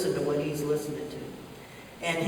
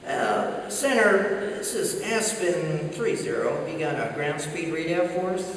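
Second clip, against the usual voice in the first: lightly imitated innocent pilot, slow and unassuming; Danny Glover; 2 semitones lower than usual. Back-seater radioing center for ground speed, innocent voice. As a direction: ask it with feigned innocence. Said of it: "His very best innocent Danny Glover voice".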